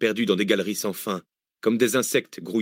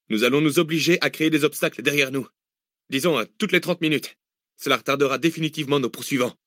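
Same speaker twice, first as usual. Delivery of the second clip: energetic planner, raised pitch; eager Zach; 5 semitones higher than usual. Acted. Zach proposing obstacles, eager. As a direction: lay out the plan keenly.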